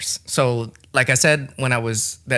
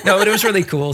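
laughing; 8 semitones higher, 4 dB louder than usual. Real, not acted. Laughing at gift joke.

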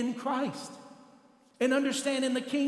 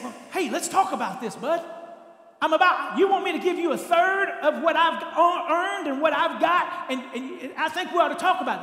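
mock reasonable dad; 4 semitones higher, 4 dB louder than usual. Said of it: "The dad didn't say".

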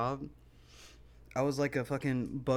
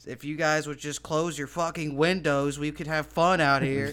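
mildly raised, louder retold yell; imitated yelling; 3 semitones higher, 6 dB louder than usual. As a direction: imitate someone yelling at the neighbors. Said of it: "yelling at the people".

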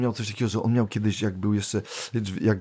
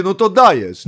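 mock cheer; 9 semitones higher, 7 dB louder, slower than usual. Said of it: "ja mówię".

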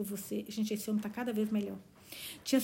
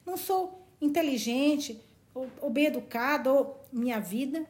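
sighing; 3 semitones higher than usual. Acted. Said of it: "suspirou Valancy".

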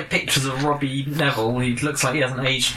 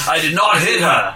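mock movie quote; 3 semitones higher, 4 dB louder than usual. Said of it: "He said".

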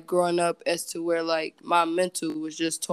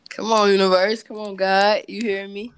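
playful plea to the heavens, raised voice; mock-imploring call; calling on the universe; 2 semitones higher, 5 dB louder than usual.

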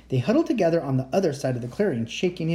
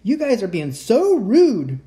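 loud, slow scolding call; 7 semitones higher, 7 dB louder, slower than usual. Acted. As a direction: call out the rude group.

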